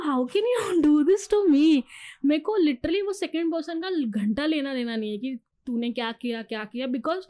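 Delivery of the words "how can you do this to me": slow, high, louder plea through a laugh; half-laughing, drawn-out accusation; mock-hurt question broken by a laugh. Retold plea to cheating partner.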